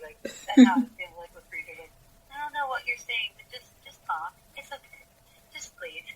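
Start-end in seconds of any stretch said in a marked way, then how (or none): 2.3-6.0 Joe. Retold or imitated. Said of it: "I feel like that would be Joe".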